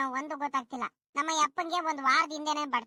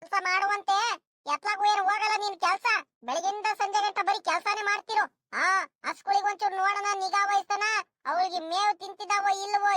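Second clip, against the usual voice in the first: higher-pitched nagging at a husband; scolding; 3 semitones higher than usual. Acted. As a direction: tell the husband off in exasperation. Wife scolds husband for neglecting cows. (ಗಂಡನನ್ನು ಬೈಯುವ ದನಿ)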